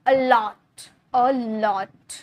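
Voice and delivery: "A lot" split, with weight on lot; stress on second syllable. Shown as a demonstration. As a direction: lean hard on the lot of "A lot". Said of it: "बेट पे जोड़ दे रहे हैं". ("lot" पर ज़ोर देकर)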